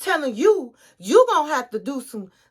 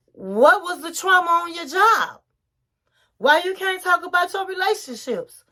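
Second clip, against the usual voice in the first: mocking disbelief; 5 semitones higher than usual. Mocking the wife's accusations.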